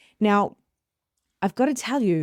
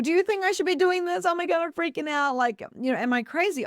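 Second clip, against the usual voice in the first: mock freaking out; 10 semitones higher than usual. Imagined anxious asking of others.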